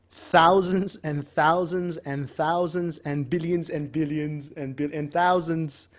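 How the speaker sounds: lightly imitated Trump, slow emphatic repetition; a hint of Trump's boastful emphasis; Trump impression. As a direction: roll the repeated amounts out slowly like Trump. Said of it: "That was my Trump impression".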